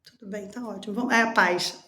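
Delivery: calm acceptance. Retold or imitated. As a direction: settle it gently, no fight. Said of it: "você chega e fala".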